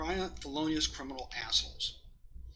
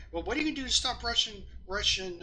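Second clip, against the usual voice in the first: mock senator question; 6 semitones higher than usual.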